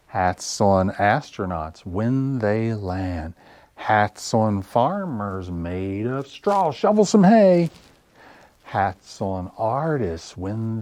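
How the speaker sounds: slow sing-song, drawn-out words; children's rhyme recital. Acted. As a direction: chant it slowly for little kids, lifting the action lines.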